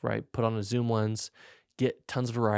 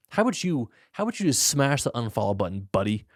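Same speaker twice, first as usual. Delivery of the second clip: mock rant; 3 semitones higher, 5 dB louder than usual.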